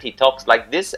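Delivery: lightly imitated Indian accent. Son imitating his dad's way of talking, mock Indian accent. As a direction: put on a rough, bad Indian accent. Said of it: "doing a really bad accent".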